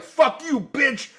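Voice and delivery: high-pitched hammed-up defiance; mock indignant retort. Drunk fan refusing to return shirt, mock indignant. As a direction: retell a squabble, gleefully refusing. Retold quarrel over the shirt.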